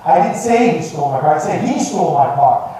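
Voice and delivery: "say" picked out with strong emphasis; stress on SAY. Shown as a demonstration. Coach demonstrating one statement's many meanings, stress on "say". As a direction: put the weight on "say". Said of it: "say this sentence a few times".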